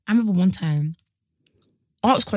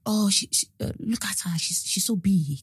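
mean whisper; 6 dB quieter than usual. Retold or imitated. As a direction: hiss it like a mean girl behind her back. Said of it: "something like".

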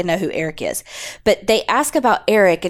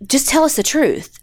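higher-pitched mock exasperation; frustrated detective; 4 semitones higher than usual. Retold detective pressing the suspect for the truth, frustrated. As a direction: imitate a detective losing patience. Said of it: "detective's getting frustrated".

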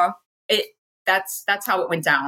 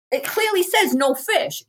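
firm nurse; 11 semitones higher, slower than usual. Retold or imitated. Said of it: "And she's".

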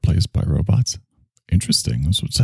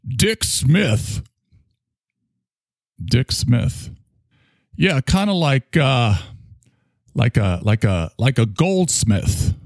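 eager applicant; 7 semitones higher, slower than usual. Pretend. Mock audition, applicant answers.

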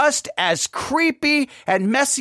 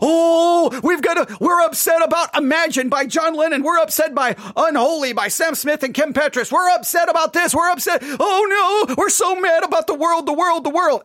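mock outrage; 6 semitones higher than usual. Mocking Christians' outrage.

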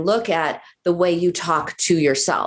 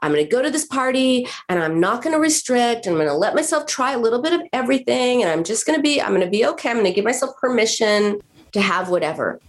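lightly voiced patient psyching herself up, higher; higher, quick, cheery self-pep talk; upbeat self-talk; 4 semitones higher, faster than usual. Patient pepping herself up before the party, higher. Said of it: "she was telling herself".

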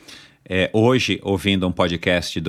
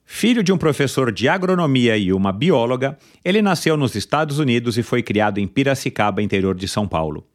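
upbeat podcast host intro; announcer intro; 5 semitones higher than usual. Acted. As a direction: build up to the guest's name. Announces the guest's biography.

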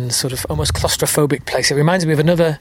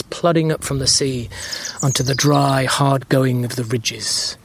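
measured book-reading voice; reading aloud. Acted. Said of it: "I'm gonna read from it".

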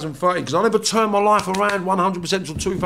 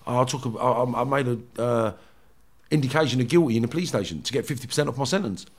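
mumbled prisoner reply; 7 semitones lower, 6 dB quieter than usual. Retold or imitated. Voicing the other prisoner.

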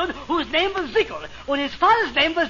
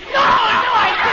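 loud exasperated denial; angry; 6 semitones higher, 5 dB louder than usual. Acted. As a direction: shout it down.

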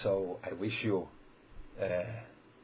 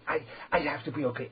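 faster, higher, stammering "I, I" like someone praying only to himself; mock self-absorbed worshipper; 5 semitones higher, faster than usual. Shown as a demonstration. Rabbi mimics a man who prays only to himself, stammering quickly. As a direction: rush it, tripping over the repeated "I". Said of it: "I daven to myself".

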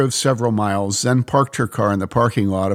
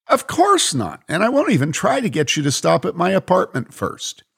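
put-on higher, playful young woman; light tease; Mary, teasing; 8 semitones higher than usual. Mary promises the Israeli not to stop at her place, playful.

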